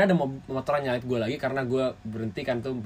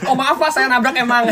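apologising through laughter, higher and louder; a joking sorry that cracks up; telling the man sorry in jest, laughing throughout; laughing mock apology; 9 semitones higher, 7 dB louder than usual.

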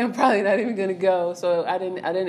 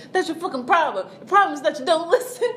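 pitched-up mock yell with a laugh through it; imitating angry boyfriend, laughing; 9 semitones higher, 4 dB louder than usual. Boyfriend leaning over her on the bed, mock yelling with laughs. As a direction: play his rage half laughing. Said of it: "He was like".

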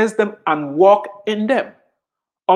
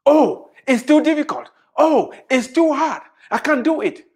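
mock whining complainer; 5 semitones higher than usual. Mocking a complaining believer.

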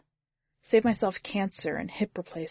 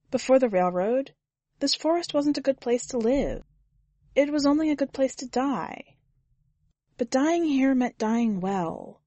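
lightly raised, calm woman's voice; Susie's voice; 7 semitones higher than usual. A narrator's reading. Susie speaks in story.

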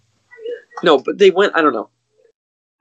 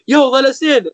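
high-pitched retold plea to enter; mock calling out; 9 semitones higher than usual. People knocking on the window to get in, mock calling out.

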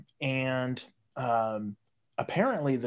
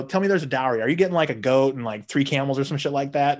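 louder, fast ribbing question; a louder, quicker mocking interrogation; teasing demand; 5 dB louder than usual. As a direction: needle him loudly about the goats. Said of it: "And I go".

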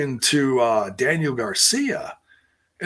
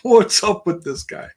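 much higher and louder incredulous whoa; surprised reaction; 10 semitones higher, 6 dB louder than usual. Retold or imitated. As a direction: react like you can't believe your eyes. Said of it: "and I'm like".

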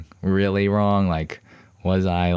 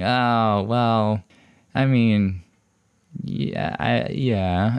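higher-pitched, halting stall; noncommittal hedging; 5 semitones higher, much slower than usual. Retold or imitated. Student hedging to counselor about missed class, noncommittal. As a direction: hedge haltingly, saying whatever comes. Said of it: "saying whatever, really, just kind of".

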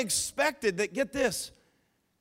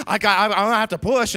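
louder, fast and pressed, a woman about to give birth; urgent labor cry; 6 dB louder, faster than usual. Retold or imitated. Mary in the cave telling Joseph she must push, loud and fast. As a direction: blurt it out like labor can't wait.

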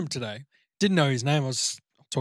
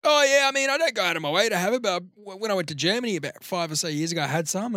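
Kiwi bloke impression; 5 semitones higher, faster than usual. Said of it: "full Aussie".

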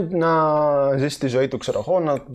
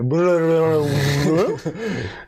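babbled transition effect; vocal transition noise; 2 semitones higher than usual. Pretend. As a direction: make a silly burbling scene-change sound with your mouth. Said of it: "έκανε ένα transition τώρα". (αστείος ήχος μετάβασης με το στόμα)

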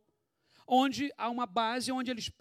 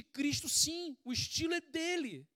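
proclaimed; 7 semitones higher than usual. Acted. Sermon refrain repeated, climaxing.

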